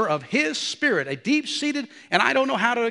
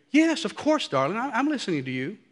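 mock reassurance; 4 semitones higher than usual. Husband pretending he heard his wife, mock reassuring. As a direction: placate her as an inattentive husband would.

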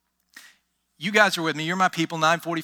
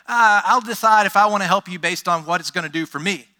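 selfish helper; 6 dB louder than usual. Retold or imitated.

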